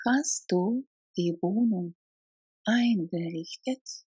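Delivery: "Hast du die Wohnung" then "eingerichtet" said as a separate chunk; chunked repeat. Shown as a demonstration. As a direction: break it up for learners to repeat.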